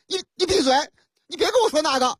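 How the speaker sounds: 调门拔高地连珠顶嘴; 演一个不服气的司机高声争辩; 嚷嚷争辩. Acted. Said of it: "我当然有理由嚷嚷了". (高调急躁地嚷)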